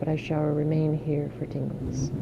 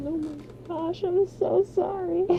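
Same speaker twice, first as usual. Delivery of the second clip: high, giggling apology through laughter; squeaky embarrassed laughing sorry. Real, not acted. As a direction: apologize while helplessly giggling. Embarrassed laughing apology after loud blast.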